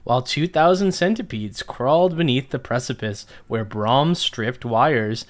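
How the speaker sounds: lightly theatrical story narrator. A narrator's reading. Podcast host reads listeners' nonsense story, narrator voice. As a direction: read nonsense as an earnest tale. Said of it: "get my narrator voice ready".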